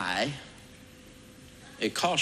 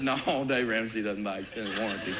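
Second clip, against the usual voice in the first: amused denial. Retold or imitated. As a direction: deny it, chuckling under the breath. First calm denial.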